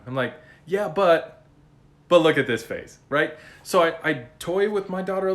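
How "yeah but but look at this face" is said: mock vanity. Dad teasing daughter about his looks.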